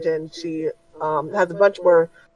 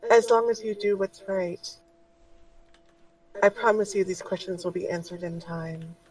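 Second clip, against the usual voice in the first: soft, much quieter motherly voice; gentle spirit guide; 5 dB quieter than usual. Acted. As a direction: reassure her tenderly. Guide speaks.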